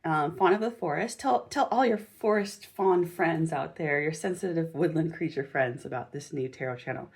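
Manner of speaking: flat, even robot voice. Pretend. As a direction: say it like a monotone robot. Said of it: "in my robot voice".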